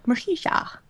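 Mercicia as mur-SHEE-shah; high, soft Mercicia rising at the end; tentative pronunciation. Real, not acted. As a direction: question Mercicia with a "shah" ending. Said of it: "One of those three is right".

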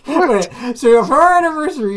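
high, loud disbelief; incredulous. Retold or imitated. Husband replays his reply to wife's trip plan, incredulous. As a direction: blurt it out, hammed-up and incredulous.

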